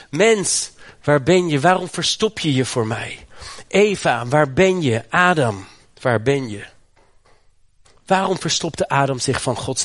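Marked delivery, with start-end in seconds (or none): 0.1-6.6 God calling out. Acted. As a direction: call out to the hiding man. God still calling the people.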